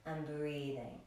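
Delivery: calm yoga teacher pacing the breath; guided breathing. Acted. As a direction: cue each breath calmly, with long pauses.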